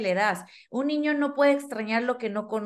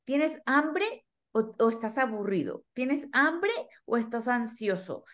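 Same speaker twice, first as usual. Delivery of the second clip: put-on patient question to child. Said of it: "que les hacemos reflexionar".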